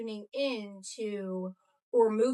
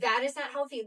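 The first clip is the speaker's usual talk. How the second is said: a touch more force on NOT HEALTHY; said louder on request; 2 semitones higher, 3 dB louder than usual. Shown as a demonstration. Podcast guest repeating her point after co-host's prompt, mildly emphatic. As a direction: repeat it firmly, slightly stronger. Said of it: "Say it louder".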